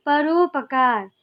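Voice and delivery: slow परोपकार, stretching the ओ in परोपकार; drawn-out vowel. Shown as a demonstration. Teacher to students, showing the ओ vowel slowly. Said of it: "रू जब आपने बोला".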